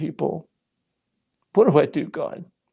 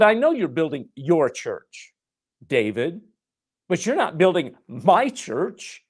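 voice of God; 7 semitones higher, slower than usual. Retold or imitated. God answers in retold scene.

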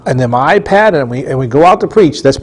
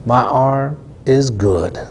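slow quoted answer; 3 semitones lower, 5 dB quieter, much slower than usual. Retold or imitated. Girl reporting her healed arm.

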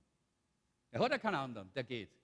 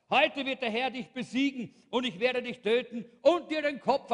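calling back; 2 semitones higher than usual. Retold or imitated. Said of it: "rief zurück".

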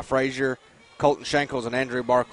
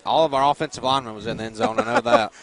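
excited; 10 semitones higher, 6 dB louder than usual. Real, not acted. Excited colleague reacting.

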